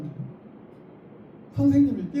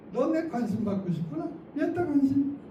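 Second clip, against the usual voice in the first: teasing teacher line; 5 semitones higher than usual. Shown as a demonstration. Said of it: "저는 이렇게 해요".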